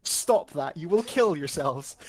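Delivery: urgent warning. Retold or imitated. Scottish local loudly warning American tourists off turning. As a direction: stop them before they crash, loudly.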